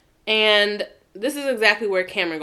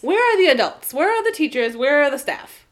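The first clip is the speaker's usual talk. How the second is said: incredulous; 4 semitones higher than usual. Real, not acted. Mock outrage at unsupervised kids.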